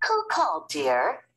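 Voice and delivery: mother asking her son; curious mother. Acted. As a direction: ask sweetly. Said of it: "Missus Lambchop asks".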